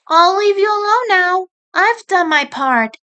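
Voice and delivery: put-on high young female rabbit voice, earnest; turning serious as the sister. Sister turns serious with Nick, high earnest voice. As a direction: get down to business.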